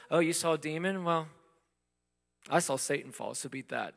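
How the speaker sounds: lightly mocking know-it-all; smug one-upping. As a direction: play the smug one-upper, tossing it off. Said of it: "trying to one-up the disciples".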